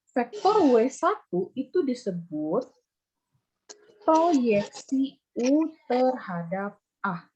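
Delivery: slow, deliberate teacher stating a key term; slow, emphatic definition. Real, not acted. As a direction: spell it out phrase by phrase, slowly. (definisi diucapkan pelan dan tegas)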